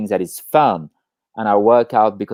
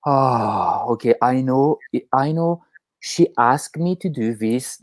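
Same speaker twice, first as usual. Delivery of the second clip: calm inner voice; 2 semitones lower than usual. Retold or imitated. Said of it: "It's like".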